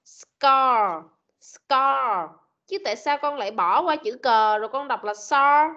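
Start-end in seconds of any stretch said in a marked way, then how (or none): 0.1-2.3 "scar" with clear s then k sound; teacher's model scar. Shown as a demonstration. Teacher showing the blend to the pupil, careful demo. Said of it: "Ghép vào chữ C đằng trước thì sẽ thành".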